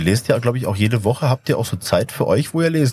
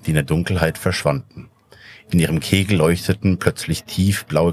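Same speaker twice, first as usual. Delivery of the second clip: measured read-aloud storytelling voice; story narration; 2 semitones lower than usual. Acted. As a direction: read the story out, lifting the dialogue a little. Reads the novel aloud. (Geschichte vorlesen, ruhiger Erzählton)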